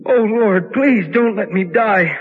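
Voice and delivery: fearful prayer. Acted. Lost man praying in fear not to die. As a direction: beg God not to die down here.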